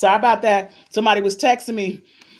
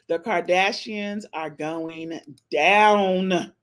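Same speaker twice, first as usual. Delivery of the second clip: slow emphatic repeat; 3 semitones lower, much slower than usual. Shown as a demonstration. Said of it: "Y'all hear what I said?".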